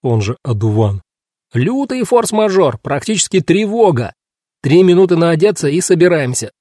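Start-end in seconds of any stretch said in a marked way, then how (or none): 1.5-6.5 high, urgent rousing call; excited character yell, pitched up; hollered alarm. A narrator's reading. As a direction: raise the alarm to sleepers behind doors. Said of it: "заорал снаружи Кинг Джордж".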